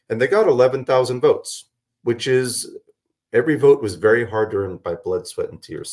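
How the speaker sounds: raspy, worn-out voice; hoarse after a long night. Real, not acted. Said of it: "if my voice sounds like, lost my voice".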